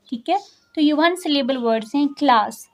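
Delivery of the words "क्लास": one quick, unbroken syllable on क्लास; said without a break. Shown as a demonstration. Teacher showing a one-syllable word, क्लास said in one go. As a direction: say क्लास at once, with no pause inside. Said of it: "फ़ौरन से हम इसको कह रहे हैं".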